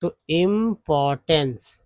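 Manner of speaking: इम्पोर्टेंस drawn out slowly, ending in एंस; teacher stretches इम्पोर्टेंस ending एंस; slow pronunciation demo. Shown as a demonstration. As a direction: model इम्पोर्टेंस slowly for the class. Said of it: "एएनसी को एंस बोलते हैं".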